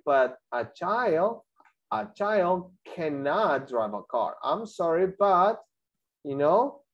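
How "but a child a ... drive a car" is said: put-on "child" and "cannot" drawn out slowly, lower; slow correction. Shown as a demonstration. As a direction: gently spell out the correct answer. (corrección lenta y grave de la profesora)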